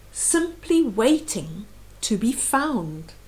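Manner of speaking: rhythmic read-aloud of a rhyming book; storybook reading voice; story narration. A narrator's reading. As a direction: read the verse gently to a small child. Reads picture book aloud.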